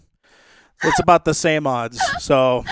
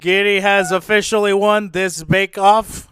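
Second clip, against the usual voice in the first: announcer voice; 4 semitones higher than usual. Pretend. Announcing bake-off winner.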